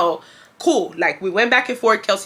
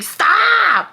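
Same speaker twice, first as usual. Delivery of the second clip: much higher mock snap; a half-hearted mad stop, pitched way up; 11 semitones higher, 4 dB louder than usual. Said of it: "really mad".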